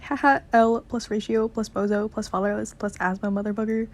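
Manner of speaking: mock taunting, run-on list; mocking Ralph. Boy makes fun of his nickname, taunting. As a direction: tease like a schoolkid reeling off insults. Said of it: "he makes fun of him".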